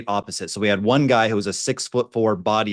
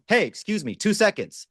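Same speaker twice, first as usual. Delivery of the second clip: much higher, timid request; imitating a high voice; 10 semitones higher than usual. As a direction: ask politely, pitched way up. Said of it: "talked to them in, like, a big booming voice".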